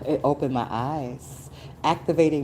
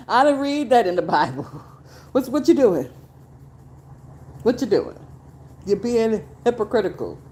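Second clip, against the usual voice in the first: high, louder indignant challenge; indignant call-out; 8 semitones higher, 4 dB louder, faster than usual. Retold or imitated. Scolding church men for hypocrisy, high and indignant. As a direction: scold them in disbelief.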